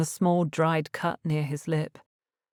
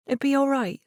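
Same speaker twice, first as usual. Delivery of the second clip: reassuring smile; 9 semitones higher than usual. A narrator's reading. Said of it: "with a reassuring smile".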